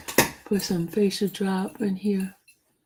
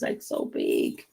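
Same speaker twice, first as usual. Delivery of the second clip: whisper; 7 dB quieter, slower than usual. Acted. Exaggerating how big clothes are.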